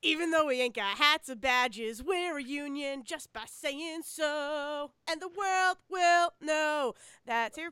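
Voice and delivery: a touch of a rallying strike leader; lightly voiced newsboy strike speech; rousing Newsies speech. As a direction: recite it like a newsboy rallying the union, slowing at the end.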